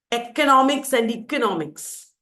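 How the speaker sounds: first Economics opens "eh", second economics opens "ee"; two vowel variants. Shown as a demonstration. Teacher showing both are correct, two opening vowels. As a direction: contrast EH and EE at the start of "Economics and economics". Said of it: "Both are correct".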